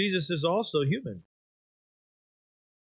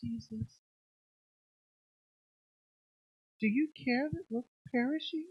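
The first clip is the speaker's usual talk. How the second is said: flat calm question; 3 semitones higher, 9 dB quieter than usual. Retold or imitated. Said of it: "No, I think there was some emotion involved".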